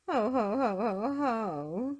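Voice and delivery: a sorry laugh close to tears; mournful laugh. Acted. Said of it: "she said mournfully".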